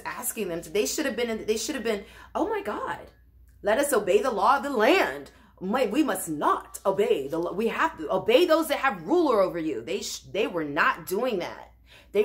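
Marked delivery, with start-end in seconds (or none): 2.4-9.8 mock pleading. Preacher voicing the men who should obey, pleading. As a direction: act out what they should have said, pleading.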